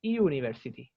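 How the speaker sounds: "university" starting with separate "ee-oo" vowels; vowel I-U onset. Shown as a demonstration. Teacher showing another wrong reading, "university" with ee-oo onset. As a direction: say "university" as "ee-ooniversity". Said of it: "y tampoco es".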